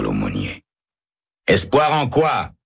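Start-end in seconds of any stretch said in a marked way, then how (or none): 1.5-2.5 high, slow, indignant cry. Acted. Condemned man cries out at the chaplain, high and slow. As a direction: fling the question back in protest. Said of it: "crie Herbert".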